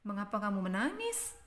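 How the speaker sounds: quick question lifting on "menangis"; "menangis" turned upward as a question; rising question. Shown as a demonstration. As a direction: ask briskly, raising the end of "menangis". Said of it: "nadanya Mem Ita di belakang meninggi".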